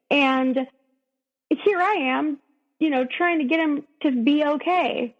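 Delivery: real upset anger. Real, not acted. Woman telling the host about her partner, rising real indignation. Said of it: "I'm still so mad".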